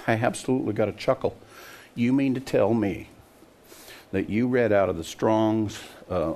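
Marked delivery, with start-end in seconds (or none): 0.1-1.3 real chuckle through the words; chuckling. Real, not acted. Preacher mocking messianics, chuckling as he talks. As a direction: laugh it off, quickly. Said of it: "I gotta laugh".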